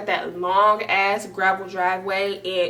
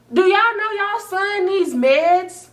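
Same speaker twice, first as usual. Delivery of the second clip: higher, louder, slow jab; incredulous; 10 semitones higher, 6 dB louder, slower than usual. Real, not acted. Jabbing at ex's parents, incredulous and loud. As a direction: ask it in disbelief.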